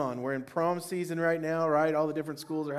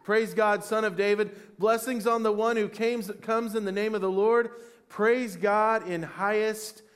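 raised, higher cheering voice; yelling praise; 5 semitones higher, 4 dB louder than usual. Acted. Pastor joins congregation yelling praise, loud raised cry. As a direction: call it out like a crowd hailing a king. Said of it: "I'll yell it too".

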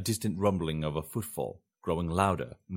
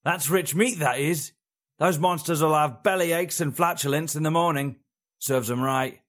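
put-on higher, louder cackling old crone voice; 8 semitones higher, 4 dB louder than usual. A narrator's reading. Crone teasing the fugitives, a high old woman's voice. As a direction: play the amused old witch. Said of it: "she laughed loudly".

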